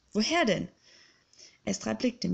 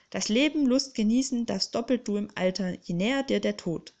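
called out. Acted. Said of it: "rief Arkanion".

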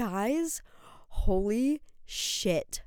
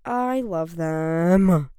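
heartfelt; 2 semitones lower, 6 dB louder, much slower than usual. Real, not acted. Heartfelt declaration.

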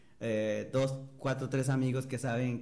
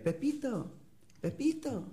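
imitating friend calling; 11 semitones higher, 4 dB quieter, slower than usual. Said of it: "y ya me dice".

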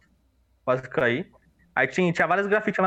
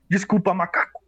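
put-on drunk voice; 3 semitones higher than usual. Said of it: "Com uma voz de bêbado".

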